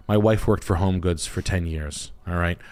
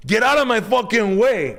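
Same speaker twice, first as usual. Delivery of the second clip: mock girl snapping. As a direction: shriek it at him. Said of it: "And she goes".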